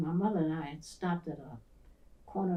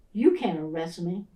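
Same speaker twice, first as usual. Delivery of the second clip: defiant; 7 dB louder than usual. Retold or imitated. Boy defying a policeman.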